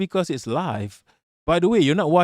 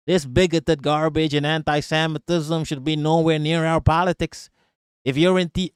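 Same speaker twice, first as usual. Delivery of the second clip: put-on half-hearted Valley accent. Streamer reading her complaint, weak Valley accent. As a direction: attempt a Valley accent and do it badly. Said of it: "I gotta do a Valley accent".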